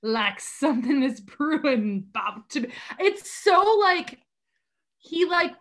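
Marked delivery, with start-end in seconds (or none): 0.0-2.7 slow mock Cockney recitation; Dick Van Dyke's Cockney. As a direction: lightly put on a bad British accent, measured. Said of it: "tries to Cockney it up a little too much".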